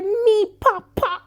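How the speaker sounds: high, slow gasp of disbelief; a stunned squeal of shock; loud slow shriek of shock; shocked cry. Real, not acted. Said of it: "I was not ready".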